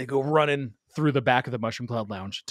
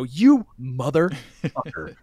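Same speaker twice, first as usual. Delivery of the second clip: drawn out and slow, a touch louder, seething; slow furious insult; 4 dB louder, much slower than usual. Retold or imitated. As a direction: spit it out slowly at the man who cheated you. Confronting Mickey in the lounge.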